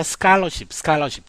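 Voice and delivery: 스칼러십 with the 칼 said as a hard, tense 깔; tense k sound. Shown as a demonstration. Teacher shows students how 스칼러십 sounds, tense 깔 in 칼. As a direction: say 스칼러십 with an unaspirated kk. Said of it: "칼이 아니고 깔로 발음됩니다".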